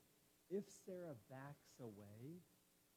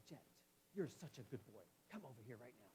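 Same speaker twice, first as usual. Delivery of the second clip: stern tone to dog. Shown as a demonstration. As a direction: praise said like a scolding. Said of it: "Tone is important to him".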